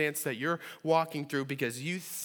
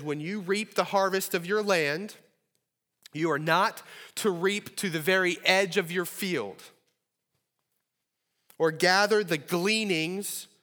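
scripture reading; 3 semitones higher, 3 dB louder than usual. Shown as a demonstration. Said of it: "This is what it says".

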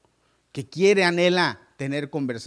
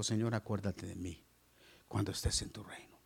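dying thief's plea; 7 semitones lower, 9 dB quieter than usual. Acted. Thief on cross pleads.

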